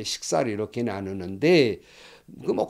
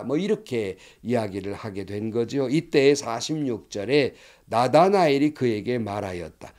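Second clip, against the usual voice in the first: ordinary delivery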